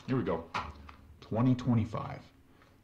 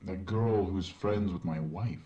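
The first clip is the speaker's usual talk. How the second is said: game character. Acted. In-game doctor voice.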